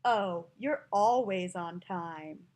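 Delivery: drawn-out sarcasm on ALWAYS; slow, low-pitched mock praise; sarcastic. Shown as a demonstration. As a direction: stretch the vowels with obvious sarcasm. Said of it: "when somebody's sarcastic".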